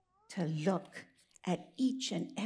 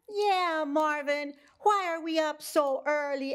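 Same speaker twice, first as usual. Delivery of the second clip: higher cow voice; 6 semitones higher than usual. Acted. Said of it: "asked Mama Cow".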